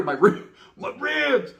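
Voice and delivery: high, slow mock moan; milk the pain in a drawn-out whine; playing the victim. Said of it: "I'm gonna play the victim role".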